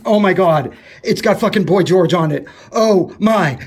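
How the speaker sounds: high, loud, gushing squeal over the magazine; excited squeal. Real, not acted. Vlogger finding an old Newsweek, squealing excitedly. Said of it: "oh my God, I gotta shut up".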